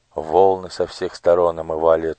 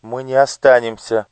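stubborn; 6 semitones higher, 7 dB louder than usual. Acted. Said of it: "упрямо повторила Оля".

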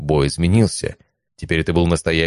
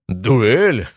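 mocking disbelief; 5 semitones higher, 3 dB louder than usual. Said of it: "Драконоподобный расхохотался так громко".

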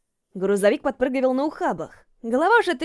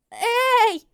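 shout; 11 semitones higher than usual. A narrator's reading. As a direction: yell to be heard over the rock. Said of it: "закричала я".

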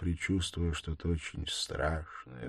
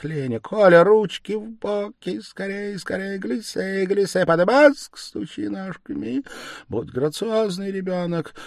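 dying mother, feverish and loud, higher; a dying woman crying out her last bitter words; 13 semitones higher, 11 dB louder than usual. Acted. Delirious memories of dancing lessons.

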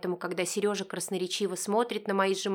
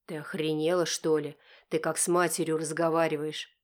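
flares up; 4 semitones lower than usual. Acted. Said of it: "взвивается Долгов".

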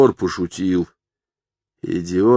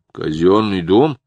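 curious clown; 2 semitones higher, 5 dB louder, slower than usual. Acted. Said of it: "заинтересовался клоун".

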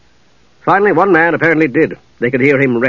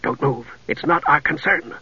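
low grunt; 7 dB quieter than usual. Acted. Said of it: "Steele grunted at Palin".

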